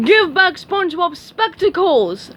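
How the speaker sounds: mock-tough starfish demand; shouted accusingly. A narrator's reading. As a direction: point the finger hard. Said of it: "Patrick shouted accusingly".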